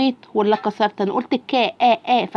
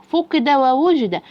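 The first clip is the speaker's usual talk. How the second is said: syllables run together into whole words; faster blended reading; 3 semitones higher, slower than usual. Shown as a demonstration. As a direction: join both words in one brisk go. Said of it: "أسرع".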